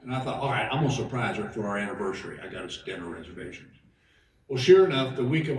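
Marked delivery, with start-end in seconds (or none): 0.4-3.7 mock secret plan. Husband plans anniversary surprise.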